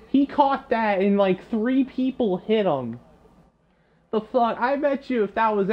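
exasperated gamer rant; indignant outburst. Real, not acted. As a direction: spit it out in disbelief. Replay, outraged at the catch.

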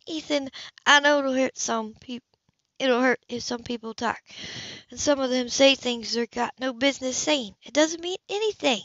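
a hint of a caring older woman, gently worried; lightly voiced older woman. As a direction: speak to him like a fond neighbour breaking bad news. Woman character voiced in story.

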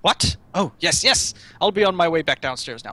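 lightly acted doting mayor, rising with enthusiasm; a hint of a stately mayor, lively pitch swings; proud mayor. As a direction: read it as a proud father showing off his city. Reads the proud mayor's lines.

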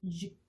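쥐 as a buzzing, pouted zh; voiced ZH sound. Shown as a demonstration. Teacher repeats zh for learners, voiced 쥐. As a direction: voice the "쥐" through rounded, pushed-out lips. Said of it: "라고 발음을 해주는 소리입니다".

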